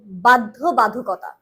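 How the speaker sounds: বাধ্য বাধকতা, ধ-তে স্পষ্ট হাওয়া দিয়ে; বাধকতা বলুন, ধ দ নয়; aspirated dha. Shown as a demonstration. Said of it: "ধকে ধর্ম উচ্চারণ করতে হবে". (বাধ্য বাধকতা, ধীরে মহাপ্রাণ ধ স্পষ্ট)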